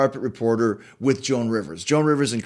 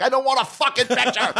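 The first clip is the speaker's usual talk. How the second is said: high laughing outburst, much higher; laughing mock anger; 10 semitones higher than usual. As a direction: snap it out while cracking up. Retold angry refusal, laughing.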